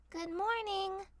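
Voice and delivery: called out. A narrator's reading. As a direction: call into the house. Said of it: "she cried out".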